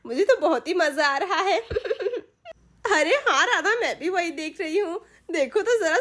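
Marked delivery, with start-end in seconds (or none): 0.1-1.6 speaking through laughter; laughing. Acted. Wife tells her friend she enjoys it, laughing. Wife watching husband's punishment. 1.6-2.2 short, soft, high laugh; gloating laugh. Acted. Wife watching the punishment, a soft gloating laugh.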